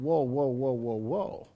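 low, soft mock protest from a worker; grumbling worker. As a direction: play the outraged worker, muttered low. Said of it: "these guys are already going".

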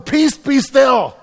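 high, loud, drawn-out shout; slow full-voiced yell at a storm; yelled command. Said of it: "why are you yelling at the storm".

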